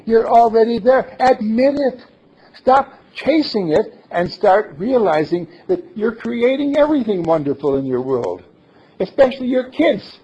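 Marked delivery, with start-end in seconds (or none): 0.1-5.5 louder and higher, proclaiming it to everyone; ringing affirmation; emphatic declaration. Real, not acted. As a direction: announce it boldly to the whole room. Repeats aloud for the room.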